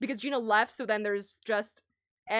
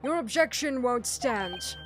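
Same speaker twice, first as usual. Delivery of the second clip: composed courtroom prosecutor; 3 dB quieter than usual. Acted.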